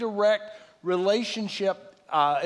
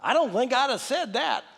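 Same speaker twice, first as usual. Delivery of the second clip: conscience voice; 4 semitones higher than usual. Retold or imitated. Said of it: "this voice says to me".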